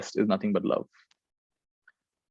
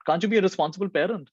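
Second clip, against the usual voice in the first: high, angry scolding of a stranger; mock-yell at the careless mother; retold angry shout; 9 semitones higher than usual. Angry man on the train scolds a mother, high-pitched shout. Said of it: "he finally shouts at her".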